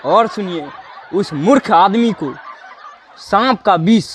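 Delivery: chuckling through the words; laughing. Acted. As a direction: gloat with a laugh. King gloats about cruel punishments.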